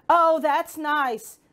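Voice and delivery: loud, slow frog shout. Acted. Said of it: "The frog shouted".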